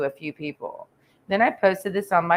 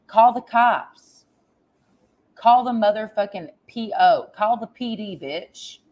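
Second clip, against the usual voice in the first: angry dare; 4 semitones higher than usual. Real, not acted. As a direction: dare her to call the police. Ranting at woman who threatened her.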